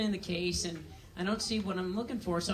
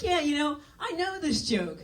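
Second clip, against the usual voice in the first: louder, laughing through the words; laughing reply; 6 semitones higher, 4 dB louder than usual. Retold or imitated. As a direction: laugh it off at the doctor. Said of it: "I start laughing".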